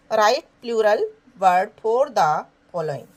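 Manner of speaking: slow, spaced-out instruction; slow dictation. Shown as a demonstration. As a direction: read the task slowly. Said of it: "reads instruction aloud".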